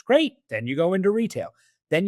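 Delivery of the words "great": a high, bright burst of praise; mock cheer. Coach cheering a career choice.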